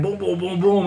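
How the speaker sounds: steady thumping booms; imitated heartbeat. Retelling his panic while high, imitated heartbeat thumps. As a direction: beat out a pounding heart with your voice. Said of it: "I hear my heart beating again".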